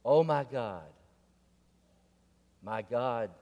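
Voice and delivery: loud frightened cry for help; panicked cry. Acted. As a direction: cry out to God in terror as the bear's paw comes down. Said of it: "And he cried out".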